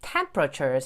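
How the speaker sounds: "temperatures" squeezed to TEM-pruh-churz; reduced middle in "temperatures"; dropped middle E. Shown as a demonstration. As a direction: say "temperatures" with the middle E barely there. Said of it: "이를 거의 발음하지 마시고".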